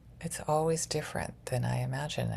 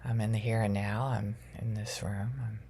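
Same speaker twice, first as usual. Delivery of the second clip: guided grounding meditation; 2 semitones lower than usual. Acted.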